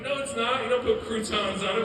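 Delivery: loud, high, exasperated comeback; incredulous retort. Retold or imitated. Speaker corrects brother's weed claim, loud mock exasperation. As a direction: argue back in mock disbelief. Arguing back at brother's excuse.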